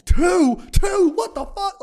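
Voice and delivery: very high, incredulous squeal of a reaction; mock shocked disbelief. Reacting to a partner's past, mock shocked. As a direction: play appalled at the number, voice shooting up.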